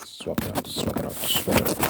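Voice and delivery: rapid repeated whisper; fast aggressive asmr. Acted. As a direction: whisper it quick and punchy.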